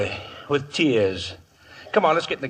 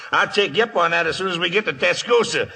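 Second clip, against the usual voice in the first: laughing; 3 semitones higher, faster than usual. Acted. Waco laughs at the singing offer.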